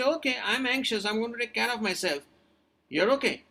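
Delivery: steady, composed reassurance to oneself; level-headed, in control; calm self-talk. Shown as a demonstration. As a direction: talk yourself down calmly. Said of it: "Don't convert that anxiety into panic".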